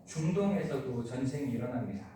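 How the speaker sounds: ordinary delivery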